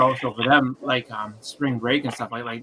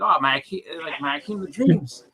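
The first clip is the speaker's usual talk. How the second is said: delighted gush; 6 semitones higher than usual. Retold or imitated. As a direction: gush over the banknote like a fan. Delighted at the banknote face.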